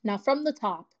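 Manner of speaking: lyrics read out like a poem; spaced-out spoken-word reading with pauses. Real, not acted. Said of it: "like, a spoken word".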